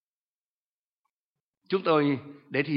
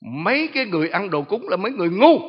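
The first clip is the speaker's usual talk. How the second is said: mocking demon; 6 semitones higher, 8 dB louder than usual. Demon quoted calling people fools.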